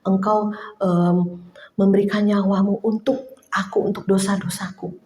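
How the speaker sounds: moved, soft prayer. Real, not acted. Preacher prays softly to the Lord, moved. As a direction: pray gently, as if moved to tears. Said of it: "saya bisa terharu, saya bisa menangis".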